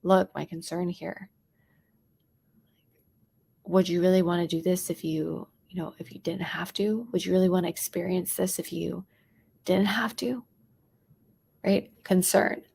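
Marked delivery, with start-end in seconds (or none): 0.0-10.4 worried friend asking gently; hushed caring question; concerned tone. Shown as a demonstration. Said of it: "Maybe I wanna be concerned".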